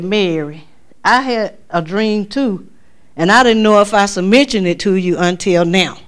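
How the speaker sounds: a hint of Dwight's slow drawl; lightly voiced slow drawling brother. Brother Dwight telling Mary of his dream, lightly drawled. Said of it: "Dwight talked kinda slow".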